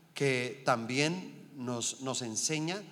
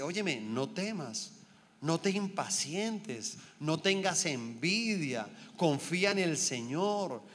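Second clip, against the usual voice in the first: reassuring psalm quote; slower than usual. Retold or imitated. Quoting the psalm, comforting.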